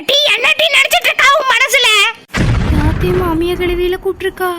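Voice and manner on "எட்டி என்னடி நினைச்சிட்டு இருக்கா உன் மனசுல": indignant phone telling-off; scolding. Acted. Mother-in-law phoning the runaway daughter-in-law, scolding.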